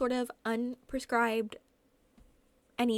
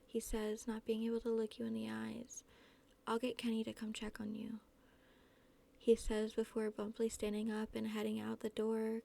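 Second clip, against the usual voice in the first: even, measured reading voice; story narration; 4 dB quieter than usual. A narrator's reading. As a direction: read the story aloud in a restrained, level tone. Reads fan fiction aloud.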